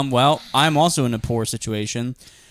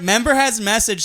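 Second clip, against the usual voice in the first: imitating the gym scanner's snide message; mean machine voice; 8 semitones higher than usual. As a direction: drag each word out meanly. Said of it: "it's like".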